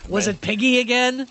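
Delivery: put-on light Louisiana accent; a hint of a Louisiana accent. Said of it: "giving everybody a Louisiana accent".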